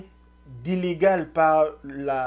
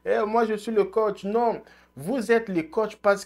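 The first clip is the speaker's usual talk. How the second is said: higher, lightly voiced back-and-forth of two men; lightly voiced coach and president; mock argument; 6 semitones higher than usual. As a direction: act out the quarrel half in jest. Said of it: "Bruce aussi voulait dire".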